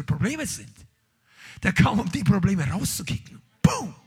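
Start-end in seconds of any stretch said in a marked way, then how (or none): 3.6-3.9 sudden high loud boom; shouted boom. Acted. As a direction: punch it out. Preacher punctuates point. (lautes Boom)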